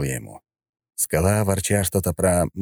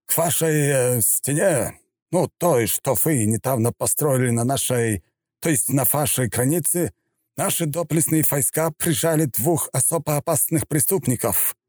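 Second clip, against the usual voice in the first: steadier, hesitant official report; more confident general; 8 semitones higher than usual. Acted. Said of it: "начал он уже более уверенно".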